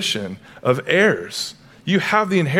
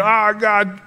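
higher-pitched mock plea; imitated cry for help; 6 semitones higher than usual. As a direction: call out as if blubbering in prayer. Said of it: "you're crying out for help".

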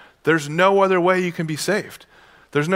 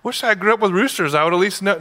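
higher, put-on befuddled voice; mock Peter; 5 semitones higher than usual. Peter puzzling over the rooster, mock confused. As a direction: play Peter as clueless about roosters. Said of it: "It's like".

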